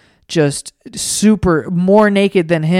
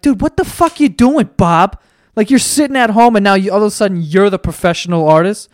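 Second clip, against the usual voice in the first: mock outrage; 3 semitones higher than usual. Viewer yelling at Bob.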